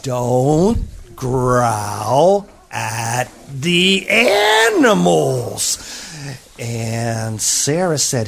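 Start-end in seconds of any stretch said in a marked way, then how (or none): 0.0-5.8 very slow, hushed scold; gentle scolding. Acted. Teacher gently scolding her class, slow and hushed. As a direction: hush them gently, drawing it out.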